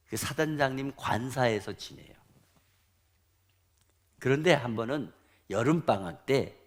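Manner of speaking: normal talking voice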